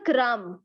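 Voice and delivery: "crumb" ending on m, no b; silent B. Shown as a demonstration. Teacher introducing the next listed word, "crumb" with silent b. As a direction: say "crumb" as kram, dropping the final B. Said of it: "B that is going to be silent".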